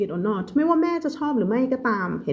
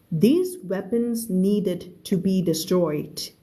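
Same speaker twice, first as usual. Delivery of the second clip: very slow, clear story reading; slow read-aloud; much slower than usual. Shown as a demonstration. Teacher reading a novel aloud to her class, very slow. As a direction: read each word out slowly for learners.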